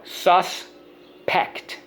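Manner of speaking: "Suspect" split as SUS, pect, first syllable high. Shown as a demonstration. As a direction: sound out "Suspect" in two parts, stressing SUS. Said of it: "On the first syllable".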